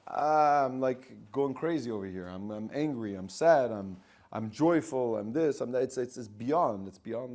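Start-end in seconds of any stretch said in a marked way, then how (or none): 0.1-5.8 louder, worked-up burst of feelings; overwhelmed emotion. Acted. Emotion crying out to the mind, worked up and loud. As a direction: blurt out every feeling at once. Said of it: "an emotion says".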